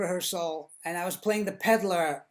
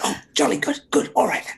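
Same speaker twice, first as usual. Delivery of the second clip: higher, louder, breezy posh English; posh English accent; 6 semitones higher, 6 dB louder than usual. Retold or imitated. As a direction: chirp it like a cheery English toff. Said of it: "he's like".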